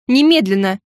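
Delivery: squealing shout. A narrator's reading. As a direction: snap it out shrilly. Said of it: "взвизгнула я". (визгливый приказ)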